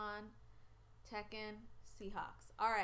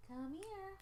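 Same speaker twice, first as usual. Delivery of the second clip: high, drawn-out pet call; coaxing a pet; 9 semitones higher, 3 dB quieter than usual. Real, not acted. Owner calling stubborn Farley over, high coaxing. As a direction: coax the pet in a raised voice.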